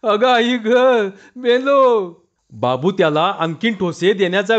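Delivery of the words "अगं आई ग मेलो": desperate cry. A narrator's reading. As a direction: scream it as if his life depends on it. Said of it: "जीवाच्या आकांताने ओरडला". (जीवाच्या आकांताने, उंच आवाजात ओरडणे)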